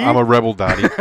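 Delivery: Pee-wee impression.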